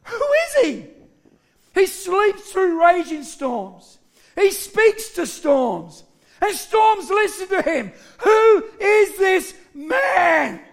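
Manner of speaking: high, slow, marvelling delivery; amazed disciples. Acted. Disciples ask each other about Jesus, amazed. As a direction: wonder aloud, building to slow emphasis. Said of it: "And they're amazed".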